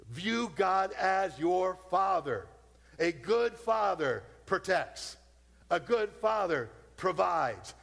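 slow, each phrase landed; slow emphatic preaching. Acted. Preacher telling the church what a good father does, slowly. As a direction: let each line sink in.

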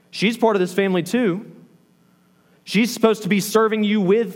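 aggrieved, emphatic questioning; acted exasperated complaint. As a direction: plead your case like an overworked sister. Acting out Martha's complaint to Jesus.

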